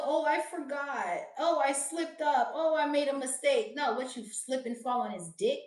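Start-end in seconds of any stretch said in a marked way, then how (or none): 0.0-3.7 mock cheater excuses. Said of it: "There is no".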